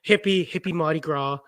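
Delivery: imitated Kiwi vowels, happy turned to hippie; mock New Zealand pronunciation of happy; New Zealand accent. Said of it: "New Zealand".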